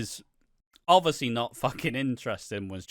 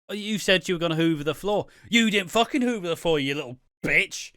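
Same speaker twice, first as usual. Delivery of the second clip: higher and louder, fast ranting accusation; mock furious rant; 4 semitones higher, 4 dB louder, faster than usual. The speaker kicks off at Kirsty over the floor, higher, louder mock fury. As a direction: rant at her as if she wrecked the house.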